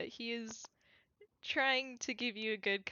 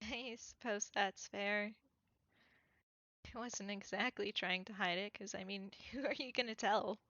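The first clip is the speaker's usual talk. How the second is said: exhausted man; 2 semitones lower, 4 dB quieter, faster than usual. Acted. Plays the exhausted character.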